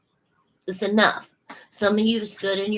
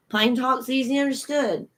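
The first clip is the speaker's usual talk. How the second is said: put-on grandpa's Cajun accent; 4 semitones higher than usual. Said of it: "old Cajun".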